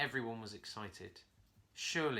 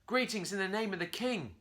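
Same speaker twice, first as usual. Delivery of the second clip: higher, louder formal monkey greeting; 8 semitones higher, 4 dB louder than usual. A narrator's reading. Curly formally greets the parrot, loud and proud. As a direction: greet the parrot like a royal herald. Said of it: "Curly said".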